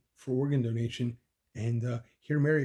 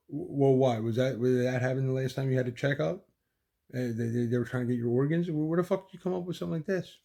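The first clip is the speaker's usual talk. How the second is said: heated demand; 2 semitones higher than usual. Retold or imitated. Arguing with fiancée about organs.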